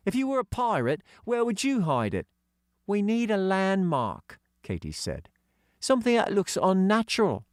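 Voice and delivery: put-on high girl's voice; young girl voicing; girl character voice. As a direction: pitch up for young Katy. Katy voice.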